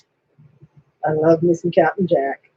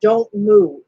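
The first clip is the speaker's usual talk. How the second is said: high, urgent command; 12 semitones higher, 4 dB louder than usual. Retold or imitated. Retelling a show's opening line, high and urgent. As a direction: quote it high and sharp, a notch louder. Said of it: "the first line I hear is".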